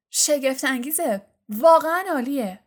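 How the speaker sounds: loud, high, overblown delight; mock rapture. A narrator's reading. Twin joining the parody while shaking hands, mock rapture. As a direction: gush as if overwhelmed. George joins the mock grand greeting.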